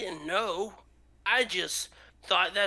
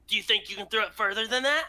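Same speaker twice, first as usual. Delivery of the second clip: put-on quick boastful child; little boy voice; 3 semitones higher, 3 dB louder, faster than usual. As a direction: show off like a small boy.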